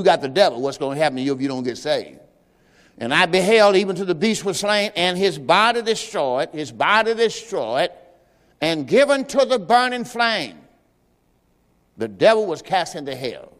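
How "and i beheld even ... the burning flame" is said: scripture reading. Acted. Reads scripture aloud.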